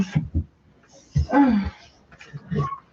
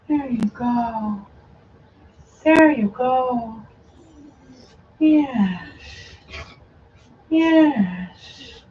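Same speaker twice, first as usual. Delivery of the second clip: slow soothing; 3 dB quieter, much slower than usual. Real, not acted. Soothing puppies.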